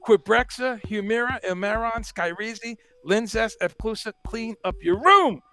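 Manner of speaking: hammed-up listing of drug names like a mother nagging; mock drug-name recital. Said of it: "hence my parody of, of certain names".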